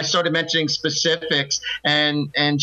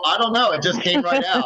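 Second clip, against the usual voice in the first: higher-pitched, acted-out surprise; mock bewilderment; 5 semitones higher than usual. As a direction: play baffled by your own words. Acting out listener's startled reply.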